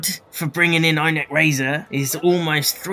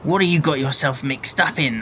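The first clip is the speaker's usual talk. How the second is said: character question, pitched down a little; deeper voice. Acted. Informant questioning Jack about trouble, in a deeper voice. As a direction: ask it in a lower voice. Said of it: "my voice has suddenly got deeper".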